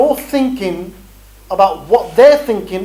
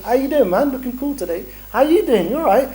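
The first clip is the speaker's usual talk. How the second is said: higher-pitched, chatty hello; friendly greeting; 5 semitones higher than usual. Acted. Fundraiser greeting people who will not stop, friendly and chatty. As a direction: greet passers-by like mates.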